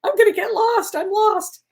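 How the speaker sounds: high, loud pleading yell to the angels; reliving a frantic yell in the car; retold screaming. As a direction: cry out for help, half panicked. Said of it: "I was screaming at the angels".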